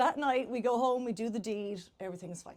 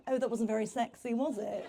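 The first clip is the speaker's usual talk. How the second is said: imitated posh London Englishman; mock posh London voice for the punchline; posh London accent. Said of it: "in his posh London accent".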